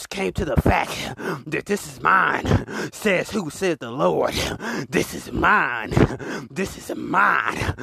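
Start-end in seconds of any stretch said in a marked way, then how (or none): 2.9-7.8 slow, drawn-out preacher's proclamation; preaching. Acted. Preacher claiming his woman before the crowd, slow and emphatic. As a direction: declare it from the pulpit, slow.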